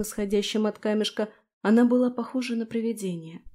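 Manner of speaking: usual speaking voice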